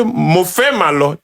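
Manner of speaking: slow Ijebu-accented "Mo fẹ́ máa lọ"; Ijebu Yoruba. Shown as a demonstration. Ijebu man showing what gets him judged, slow Ijebu accent. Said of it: "I'm a Ras man".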